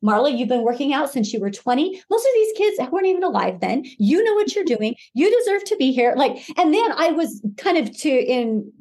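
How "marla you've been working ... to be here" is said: self pep talk. Retold or imitated. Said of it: "how I talked to myself".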